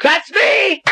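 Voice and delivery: high, thrilled cry; excited. Acted. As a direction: burst out with glee. Inherits the estate, overjoyed.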